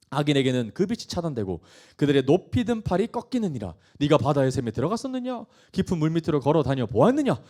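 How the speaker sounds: emphatic, driving rhetorical questions; forceful scripture reading. Acted. God questioning Job about creation, forceful. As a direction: read it out as God's challenge. Reads God's questions aloud.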